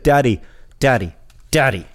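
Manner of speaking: lightly voiced little girl calling daddy; toddler's daddy call. Dad imitating his little daughter, a light toddler voice. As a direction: mimic a small child tugging for attention. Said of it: "that's how she says daddy".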